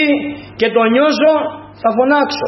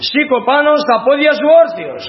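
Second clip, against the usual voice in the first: higher-pitched, projected order; acted commanding shout; 6 semitones higher than usual. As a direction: call out like the apostle commanding him to stand. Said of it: "Με μεγάλη φωνή, τι είπε".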